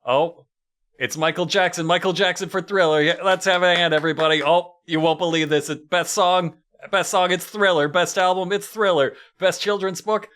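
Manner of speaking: awards show host. Retold or imitated. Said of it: "where you're sitting there hearing".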